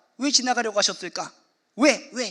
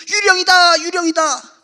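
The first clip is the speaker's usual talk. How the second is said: mock terrified cry, much higher; frightened cry; 8 semitones higher, 7 dB louder, slower than usual. Disciples seeing Jesus on water, imitating a terrified shout. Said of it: "하여 소리 지르니".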